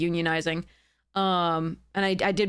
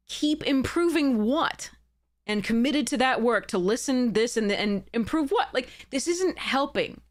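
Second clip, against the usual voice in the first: getting worked up; 4 semitones higher than usual. Real, not acted. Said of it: "I'm getting worked up".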